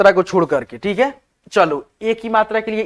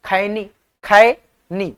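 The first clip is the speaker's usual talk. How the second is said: slow demo; much slower than usual. Shown as a demonstration. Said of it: "खैनी simple उच्चारण है".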